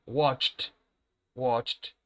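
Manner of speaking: "Watched" ending in a t; final t sound. Shown as a demonstration. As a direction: close "Watched" on a crisp t. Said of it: "con el sonido de una letra T".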